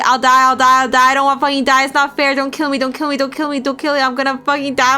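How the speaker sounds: frantic, begging for mercy; terrified young man pleading; pleading in terror. Acted. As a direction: beg for your life, panicking.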